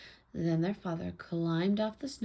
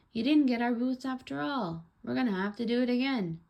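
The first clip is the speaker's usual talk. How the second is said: put-on higher, louder storybook child; raised voice of a complaining daughter; child protesting; 6 semitones higher, 6 dB louder than usual. A narrator's reading. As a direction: pipe up insistently to Dad.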